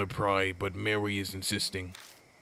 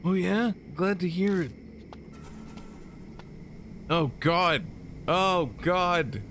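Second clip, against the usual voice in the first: high squeaky character voice; 10 semitones higher, slower than usual. Acted. Squealing character voice in game dialogue.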